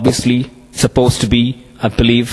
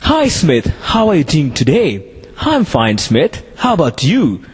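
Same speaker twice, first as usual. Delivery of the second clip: native speaker demo; 3 semitones higher than usual. Shown as a demonstration. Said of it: "Usually the foreigners speak in a different way".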